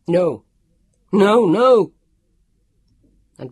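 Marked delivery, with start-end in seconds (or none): 0.1-1.9 loud, high panicked yell. A narrator's reading. Leon refusing the dark opening, yelling. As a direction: yell it out as you resist being pushed. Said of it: "he yelled".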